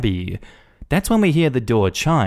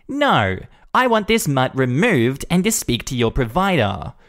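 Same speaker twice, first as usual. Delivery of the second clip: entitled demand; 4 semitones higher than usual. Acted. Karen demanding.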